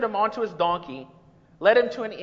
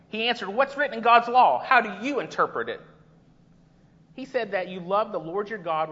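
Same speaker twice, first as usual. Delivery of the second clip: scripture reading. Acted. Reads the Good Samaritan passage.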